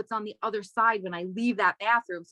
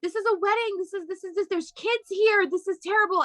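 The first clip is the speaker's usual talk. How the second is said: imitating a French woman, high and outraged; shrill-free mock French scolding, pitched well up; French accent; 9 semitones higher than usual. Angry French mother scolding a drunk couple, in French accent. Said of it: "with French accents".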